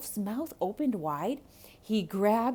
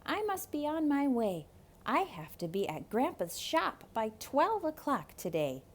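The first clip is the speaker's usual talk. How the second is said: put-on higher, hurried young boy; 5 semitones higher than usual. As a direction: speak like a polite boy. Boy Rico answers.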